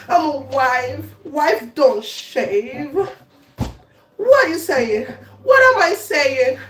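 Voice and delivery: usual speaking voice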